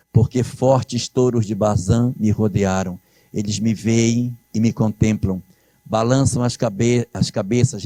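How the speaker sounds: solemn scripture reading. Acted. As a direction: read it like a prayer, unhurried. Reads the psalm aloud.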